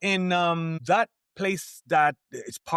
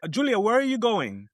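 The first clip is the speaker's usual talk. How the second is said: calling out; 9 semitones higher, 4 dB louder than usual. Retold or imitated. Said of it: "I said".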